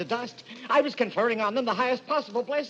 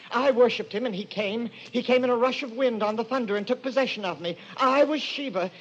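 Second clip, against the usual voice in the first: fanatical fervour; 3 semitones higher than usual. Acted. Madman describes possession.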